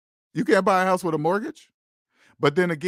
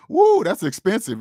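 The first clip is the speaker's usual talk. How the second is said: higher, louder imitation of sticker shock; mock shock; 5 semitones higher, 5 dB louder than usual. Imitating somebody reacting to a price, mock shock. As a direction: mimic someone balking at the price. Mimics someone balking at a price.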